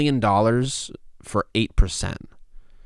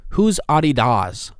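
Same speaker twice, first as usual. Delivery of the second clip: slow, higher, louder incredulous question; mock Chris D'Elia rant; 6 semitones higher, 6 dB louder, slower than usual. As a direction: play it as a stunned comic asking who that is. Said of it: "my Chris D'Elia comes out".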